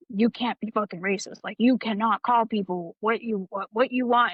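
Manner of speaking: mock-stern superior going off; lightly acted sergeant's telling-off; imitated dressing-down. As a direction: retell an indignant reprimand, firmly but without full anger. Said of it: "he starts going off about how".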